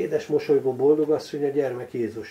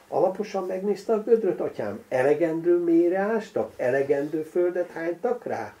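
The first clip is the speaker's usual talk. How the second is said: higher, louder, pointed cheeky questions; impudent questions; 6 semitones higher, 5 dB louder than usual. Acted. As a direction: fire the questions at the priest insolently. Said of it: "Szemtelenül koppantak a kérdések". (szemtelenül kopogó, hangos kérdések)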